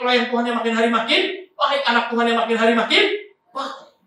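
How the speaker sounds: high, driving preacher's voice; preaching exhortation. Real, not acted. Preacher urging the congregation to keep training and learning, high exhortation. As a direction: urge the congregation on, pitched high and sustained.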